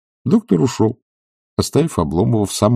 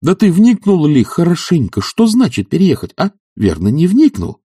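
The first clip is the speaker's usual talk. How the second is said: much higher, louder exasperated demand; indignant demand; 10 semitones higher, 5 dB louder than usual. Acted. Oblomov demanding an answer from Zakhar, loudly. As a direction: press him for an answer in outrage.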